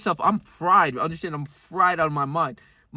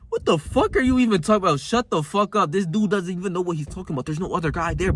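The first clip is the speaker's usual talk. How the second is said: other side of brain; 4 semitones higher than usual. Retold or imitated. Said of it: "my other side of my brain's like".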